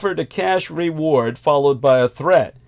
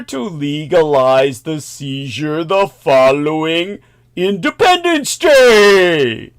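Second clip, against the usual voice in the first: sarcastic; 5 dB louder, slower than usual. Acted. Ironic Fourth of July jab.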